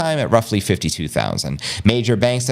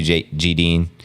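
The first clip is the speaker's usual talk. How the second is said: ordinary talk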